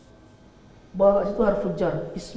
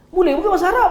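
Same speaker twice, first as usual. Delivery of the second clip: higher, louder, half-laughing retort; mock insistence; 10 semitones higher, 6 dB louder, faster than usual. A teacher retelling the gym Arab's answer with a higher, louder laugh. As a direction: toss it back as if it's obvious. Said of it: "dia kata".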